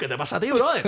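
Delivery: Cuban uncle. Retold or imitated. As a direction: wave it all away like an outraged Cuban uncle. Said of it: "I started being a Cuban uncle".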